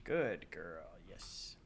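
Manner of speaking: soft whispered praise to pet. Real, not acted. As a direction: murmur gently to the cat.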